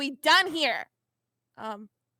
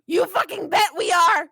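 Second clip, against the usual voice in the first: louder, punchy declaration; defiant; 4 semitones higher, 6 dB louder than usual. Acted. Vriska to the news cameras, defiantly owning the terrorist label. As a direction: throw it right back at them.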